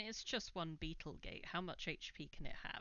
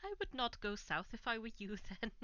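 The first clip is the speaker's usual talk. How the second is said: put-on Welsh accent; 4 semitones higher, 4 dB louder than usual. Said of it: "mostly Welsh accent is tiring".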